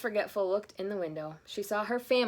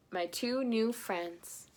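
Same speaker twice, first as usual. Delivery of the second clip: tender; 3 semitones higher, much slower than usual. Acted. Timmy tender.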